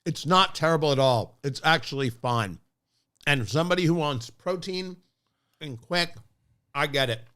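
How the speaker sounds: talking while chewing; words round a bite of food; mouth full. Real, not acted. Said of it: "I'm still chewing".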